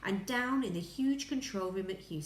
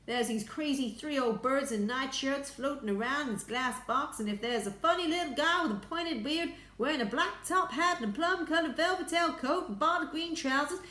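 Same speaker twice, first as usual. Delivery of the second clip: high, loud, rising report; excited gabble; 8 semitones higher, 5 dB louder than usual. A narrator's reading. Astronaut listing oddly dressed passengers to Houston, excited. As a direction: reel it off, climbing higher. Second astronaut reels off strange sights.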